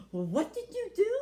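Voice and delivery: startled outburst; shocked parents. A narrator's reading. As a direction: blurt it out in alarm.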